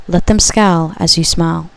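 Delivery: a hint of a country accent on "Let them scowl as you smile"; "scowl" drawn out with a light country twang; slip of country accent. Real, not acted. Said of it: "my, uh, country accent came out".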